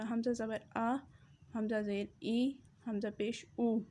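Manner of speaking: حمزہ زبر آ, حمزہ زیر ای, حمزہ پیش او with short, unstretched vowels; teacher's model reading; crisp short vowels, no stretching; correct short vowels. Shown as a demonstration. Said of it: "تو ان سے کیسے ادا کریں گے؟".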